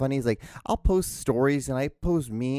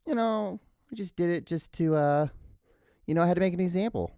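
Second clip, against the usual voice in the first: higher put-on voice for a pet; voice of the dog; 4 semitones higher than usual. Podcaster answers for Lola the dog, higher put-on voice.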